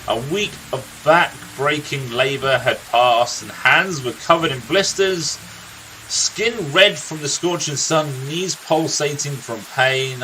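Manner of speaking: a lightly voiced grizzled old storyteller, unhurried; a gruff old warrior recounting his friend's youth; storyteller NPC. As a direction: tell the tale like a weary veteran by the fire. NPC tells the uncle's story.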